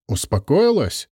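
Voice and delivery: a light hiss with an altered voice; menacing, hissed question; understated hiss of a furious ancient. A narrator's reading. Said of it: "прошипела Аллариса".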